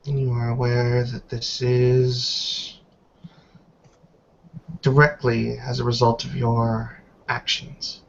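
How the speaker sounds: put-on measured, grave reproach from an old woman; lightly voiced stern elder. Elder matriarch scolding Miss Stewart in her cell, stern and disappointed.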